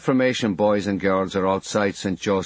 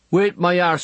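defiant retort; 8 semitones higher, 3 dB louder than usual. A narrator's reading. Mikey defies Quasimodo.

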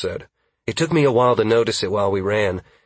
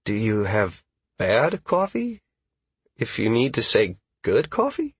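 hesitant. Acted. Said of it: "Caius asked hesitantly".

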